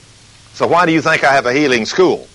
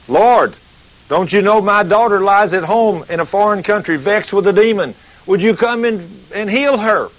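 a touch higher, earnest plea; begging woman; 6 semitones higher than usual. Retold or imitated. Mother asking Jesus to heal her daughter, lightly pleading. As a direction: mildly beg the Lord to come heal. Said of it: "she's begging".

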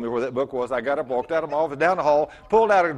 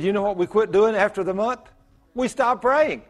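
son's confession; 5 semitones higher, 3 dB louder than usual. Retold or imitated. Son's retold realization.

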